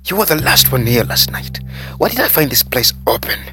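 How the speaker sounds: loud, high, indignant telling-off; angry scolding. A narrator's reading. Manager scolding waiter for leaving the place open, angry. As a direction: lay into him, pitch climbing towards the end.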